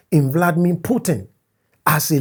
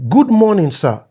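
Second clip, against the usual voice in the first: overly polite message read aloud; a hint of a fawning younger friend; reading a deferential message; 3 dB louder than usual. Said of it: "November thirty".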